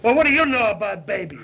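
fast sing-song mimicry of her line; mocking parrot. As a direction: throw her words back at her, fast and taunting. Edgar mocks mother's words.

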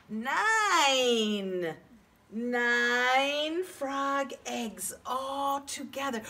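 slow, proud announcement; excited reveal. Shown as a demonstration. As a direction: savour the answer.

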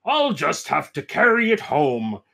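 lightly voiced papa pig, drawn out; a hint of effortful grunting; grunting Daddy Pig. Daddy Pig hauling the tree, light grunting voice. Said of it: "grunts Daddy Pig".

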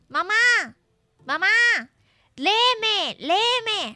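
high, insistent call for a parent; child pleading. Acted. Viewer as child asks mom to read, pleading. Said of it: "Dile a tu mami".

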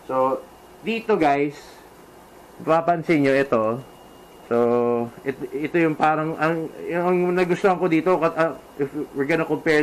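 muffled through closed visor; speaking inside a helmet. Real, not acted. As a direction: voice behind helmet chin bar. Seen 2: Speaker wears full-face helmet, visor down, pointing at chin vent.

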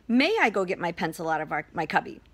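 calm, courteous asking voice; calm and pleasant. Shown as a demonstration. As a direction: model asking nicely for permission. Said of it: "use a calm and pleasant voice".

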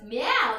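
drawn-out meow; kitty cat meow. Acted. Teacher answering what a kitty cat says, cat meow. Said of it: "what does the kitty cat say".

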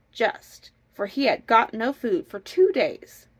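lively, measured storybook narration; storytelling. A narrator's reading. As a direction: read the folk tale aloud with bounce. Reads a folk tale aloud.

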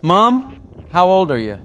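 high, loud, drawn-out call to Mom; piping-up child. A narrator's reading. Little Johnny pipes up to his mum in the car, high child's call. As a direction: pipe up high like a curious kid. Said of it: "when he pipes up".

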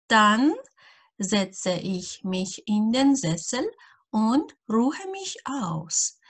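each word laid out slowly for learners; slow dictation German. Acted. Teacher reading an example sentence to beginners, slowly. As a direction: read it out slowly and clearly for beginners.

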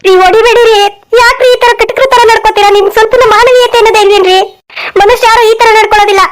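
distressed wife protesting a beating; tearful pleading. Acted. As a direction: beg him to stop, voice lifted. Wife begs husband not to hit. (ಅಳುತ್ತಾ ಬೇಡಿಕೊಳ್ಳುವ ಧ್ವನಿ)

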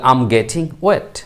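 very slow, each word spaced; slow model phrase. Shown as a demonstration. Teacher repeating the phrase for learners, very slow. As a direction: say it slowly for students to copy. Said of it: "তাহলে".

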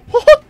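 sharp high yelp; high startled yelp. Real, not acted. Gamer yelping as Freddy lunges, high squeak. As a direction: squeak in surprise.

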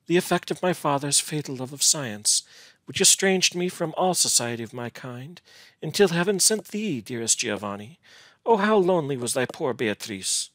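a hint of a wistful heroine; Beatrice, sorrowful and loving.

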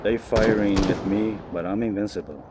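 preacher voice. Pretend. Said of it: "you sound like a preacher".

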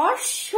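অশ্ব as osh-sho, the sh held; doubled consonant. Shown as a demonstration. Teacher repeats after explaining the double sound, doubled consonant. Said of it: "double উচ্চারণ হচ্ছে".

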